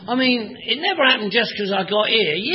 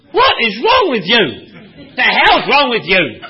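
exasperated demand; 4 dB louder than usual. Retold or imitated. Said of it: "all my life people said".

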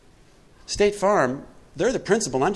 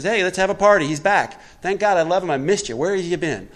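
joyful father; 5 semitones higher, 4 dB louder than usual. Retold or imitated.

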